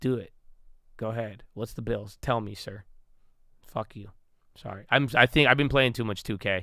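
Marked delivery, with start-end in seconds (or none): 0.0-4.1 hushed, breathy, whispered video-game voice. Retelling a reply to a collection threat, in a 2k voice. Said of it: "That's my two K voice".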